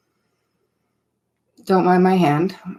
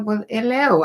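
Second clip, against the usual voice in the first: half-hearted Australian accent, pitched up; a brief, light go at an Australian accent; attempted Australian accent; 4 semitones higher than usual. Shown as a demonstration. Host greeting a Melbourne viewer, attempted Australian accent. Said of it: "I can't even try to do that accent".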